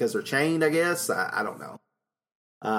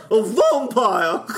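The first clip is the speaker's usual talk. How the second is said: VAMPIRE with the first syllable punched as a long, loud "vom"; hammed-up VAMPIRE, stretched into "vom-pire"; emphasis on VOM; 8 semitones higher, 5 dB louder, much slower than usual. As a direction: mimic her "vampire", high and slow on "vom". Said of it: "the emphasis on the vom".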